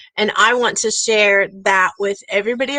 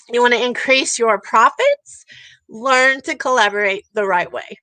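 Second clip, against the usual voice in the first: rallying, repeated call to collaborate; soapbox pitch. Real, not acted. Urging her audience to collaborate, soapbox preaching. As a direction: preach the refrain, landing each learn line. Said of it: "I'll get off my soapbox".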